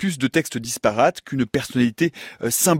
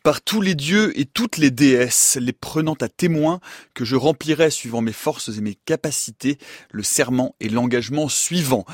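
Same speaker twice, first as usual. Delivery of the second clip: solemn oath reading. Acted. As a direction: proclaim it like swearing before the gods. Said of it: "Voilà pour le texte original". (lecture solennelle d'un serment)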